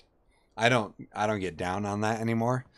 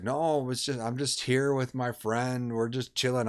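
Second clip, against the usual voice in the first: higher-pitched mock nervous excuse; imitated freaking out; 4 semitones higher than usual. Friend making excuses to a supposed cop, imitated freaking out. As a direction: act out a friend losing his cool, mildly. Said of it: "Eddie is freaking out".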